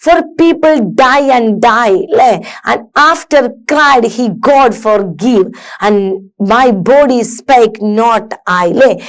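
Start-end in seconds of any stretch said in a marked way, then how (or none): 0.0-2.0 rocking beat on "people", "die" and "die"; slow recital, leaning on "people" and each "die"; stressed verse recitation. Shown as a demonstration. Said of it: "ഞാൻ പറയുമ്പോ കുറച്ച് stress കൂട്ടിയിട്ടും". 2.7-8.7 slow beats, "after", "cried" and "body" stressed; stressed verse recitation. Shown as a demonstration. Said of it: "ചിലത് stress".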